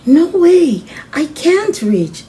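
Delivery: put-on high, loud little-girl protest; Sophia protesting. Sophia telling Maddie she can't reach, high and protesting. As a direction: squeak it out like a small kid who can't reach. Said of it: "Sophia said".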